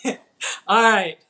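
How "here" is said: shrill summons. Real, not acted. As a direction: order him down from upstairs. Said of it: "yell at this kid".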